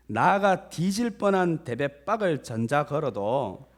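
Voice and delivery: hearty put-on Jeolla accent; imitated Jeolla speech; Jeolla dialect. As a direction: declaim it in earthy Jeolla dialect. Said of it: "전라도 버전이라서 다소 과격한 표현들이".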